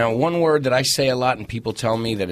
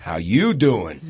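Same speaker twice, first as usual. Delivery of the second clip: a lightly voiced Joey, lower and smooth; Joey catchphrase; 5 semitones lower, slower than usual. Host imitating Joey from Friends, lightly voiced. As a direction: toss it out like Joey's flirty greeting. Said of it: "He goes".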